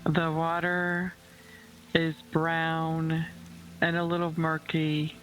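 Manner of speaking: unhurried meditation voice with long pauses; guided visualization. Acted. Host guiding listeners to picture a calm lake, unhurried meditation voice. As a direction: lead the listener gently, phrase by phrase.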